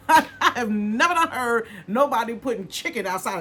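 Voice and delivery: laughing. Real, not acted. Laughing at chicken on stick.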